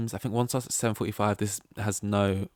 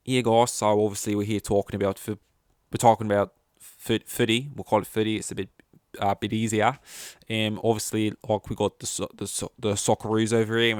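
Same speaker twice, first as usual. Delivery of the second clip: attempted casual Australian accent. Shown as a demonstration. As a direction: have a go at Australian, overdoing it. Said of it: "Okay, let's start again".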